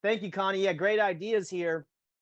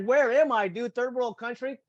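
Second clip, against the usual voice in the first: loud, higher incredulous cry; mock disbelief; 6 semitones higher, 4 dB louder than usual. Complaining about terrible roads near San Jose, loud mock disbelief. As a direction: act baffled at how bad the road is. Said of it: "I was like".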